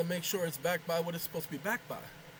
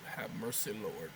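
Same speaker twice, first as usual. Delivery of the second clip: weary sigh; 9 semitones lower, 9 dB quieter than usual. Real, not acted. Exasperated aside to himself.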